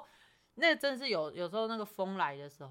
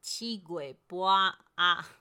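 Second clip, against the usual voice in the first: Taiwanese Hokkien; 4 dB louder, much slower than usual. Shown as a demonstration. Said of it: "这个俚语台语就是这样讲".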